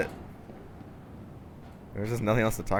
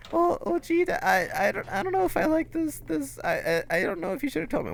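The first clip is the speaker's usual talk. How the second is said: put-on high, fretful boy; son voice. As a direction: stammer it out like the upset son. Son voice in dad-son bit.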